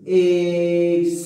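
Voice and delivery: "Exígelo" with a heavy push on "Exí"; stressed for class. Shown as a demonstration. Teacher showing students the stressed syllable of "Exígelo", emphatic. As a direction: lean hard on the first syllable of "Exígelo". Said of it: "la mayor fuerza de voz está en la antepenúltima".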